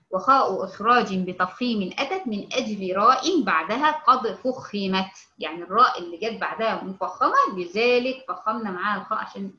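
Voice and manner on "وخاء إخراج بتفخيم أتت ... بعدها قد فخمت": slow recited verse, ending drawn out; poem recitation. Acted. Teacher reciting the Mutawalli verse to her student. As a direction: chant the line like a memorised poem.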